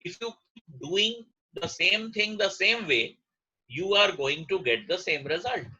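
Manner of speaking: slow, deliberate quoted saying; quoting Einstein. Retold or imitated. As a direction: lay out the famous line slowly, word by word. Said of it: "Einstein ने शायद पहली बार कहा था".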